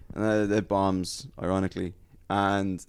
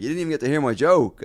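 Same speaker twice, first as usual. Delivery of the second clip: raised, louder complaint; retold protest; 7 semitones higher, 7 dB louder than usual. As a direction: call after them in mock indignation. Protesting to ejected hecklers.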